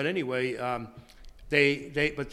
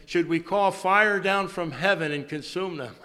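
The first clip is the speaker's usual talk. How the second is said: zealous outcry; 4 semitones higher, 7 dB louder than usual. Retold or imitated. Disciples eager to destroy.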